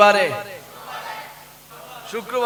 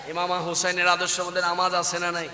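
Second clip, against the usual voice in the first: quiet, even question; subdued preacher's question; softly said; 7 dB quieter than usual. Real, not acted. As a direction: ask the congregation softly. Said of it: "আস্তে বলি, আস্তে বলি".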